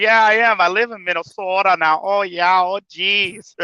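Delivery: put-on teasing Minnesotan accent; Minnesota accent. Insisting to the dispatcher, mock Minnesota accent. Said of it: "make fun of my ... dispatcher 'cause he has the accent".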